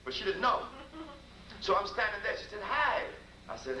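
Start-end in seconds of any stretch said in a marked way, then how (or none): 2.6-3.0 2 high, bright wife's "Hi"; 3 mimic the wife's surprised hello; 4 a much higher voice for the wife; 1 wife greeting.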